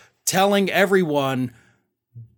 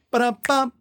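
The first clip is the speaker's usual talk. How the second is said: mock jingle; 4 semitones higher than usual. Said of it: "it's a little jingle he has to do".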